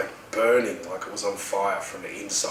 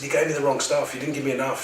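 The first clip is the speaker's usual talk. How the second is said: higher, urgent protest; retold panic; 5 semitones higher than usual. Patient accusing the nurse of a wrong dose, mildly panicked. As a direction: protest insistently, pitch raised. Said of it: "in this sort of panic stage".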